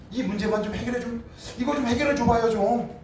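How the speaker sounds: imitating a petty prayer, high and pestering; mock nagging prayer. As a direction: whine at God to fix it.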